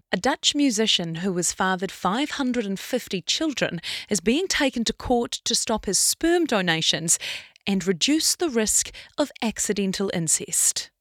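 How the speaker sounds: formal news read; newsreader voice. Acted. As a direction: read it like a bulletin. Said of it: "my newsreader voice was quite good".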